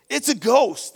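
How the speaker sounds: acted outburst of terror, loud and high; frightened cry. Disciples in the storm spotting a figure on the lake, frightened cry. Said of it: "they cried out, out of fear and terror".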